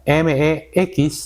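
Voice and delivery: M E X spelled letter by letter, slowly. Shown as a demonstration. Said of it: "México". (deletreando M E X despacio)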